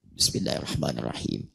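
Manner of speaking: soft, low, hushed basmalah; silent recitation. Shown as a demonstration. Teacher demonstrates sir reading, soft and hushed. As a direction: keep it to yourself, barely audible. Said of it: "saya sir".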